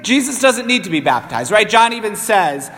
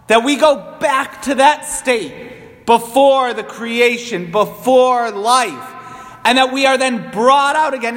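preaching; 2 semitones higher than usual. Acted. Priest explains baptism as rebirth to congregation, measured preaching.

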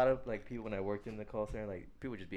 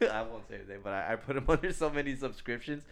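louder, higher, laughing through the words; laughing confession; 6 semitones higher, 8 dB louder than usual. Real, not acted. Admitting to a prank on a rude guy, laughing confession. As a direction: break into laughs as you admit it.

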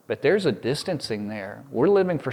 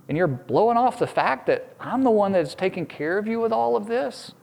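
higher, hushed, wounded disbelief; hurt God; 4 semitones higher than usual. Acted. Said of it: "he's like".

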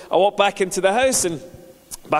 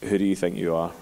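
the Holy Spirit; 9 semitones lower than usual. Retold or imitated. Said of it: "And it was the Holy Spirit".

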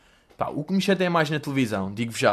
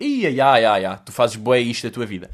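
mock TV host; 4 semitones lower than usual. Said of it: "É daqueles que vocês virem cara e tipo".

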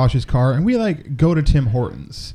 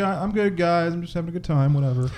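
softer, slightly raised easygoing quote; lightly acted placating; 3 semitones higher, 5 dB quieter than usual. Arms out to the cops, softly placating. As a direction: mildly play the harmless, agreeable guy.

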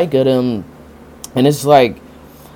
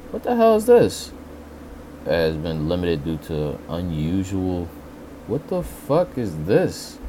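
suddenly thrown off, baffled; startled confusion; 3 semitones lower, 5 dB quieter than usual. Real, not acted. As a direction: caught off guard by a strange popup. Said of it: "I just got a weird ass text message".

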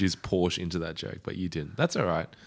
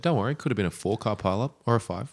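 optimistic; 4 semitones higher, 5 dB louder, faster than usual. Retold or imitated. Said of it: "his manager actually was quite an optimist".

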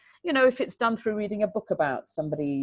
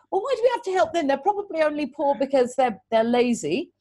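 mocking a dismissive teacher; 6 semitones higher than usual. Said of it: "who had said".

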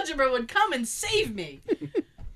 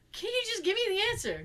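whiny plea; 9 semitones higher, faster than usual. Retold or imitated. Child pleading.

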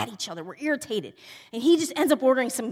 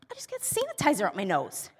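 understated annoyance; 3 semitones lower, 5 dB quieter than usual. Retold or imitated. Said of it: "he can tell that I'm visibly mad".

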